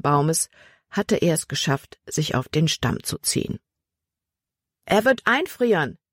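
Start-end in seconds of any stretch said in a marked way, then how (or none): 4.8-6.0 high, anxious calling out; urgent call. A narrator's reading. Libby calls to Emma about the man, urgent high call. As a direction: call it across, pitched up. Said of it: "rief Libby Emma zu".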